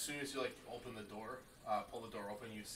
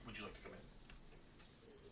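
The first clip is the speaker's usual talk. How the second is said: character voice; much slower than usual. Acted. GM voices guard.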